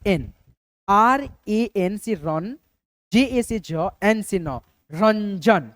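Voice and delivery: very slow, letters drawn apart; slow spelling out. Shown as a demonstration. Teacher dictating slowly to students writing names. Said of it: "कैसे आप लोग लिखेंगे".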